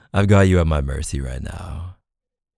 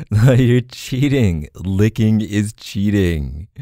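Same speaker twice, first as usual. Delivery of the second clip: playful protest; 4 semitones higher, 4 dB louder, slower than usual. Acted. Playful protest at partner cheating.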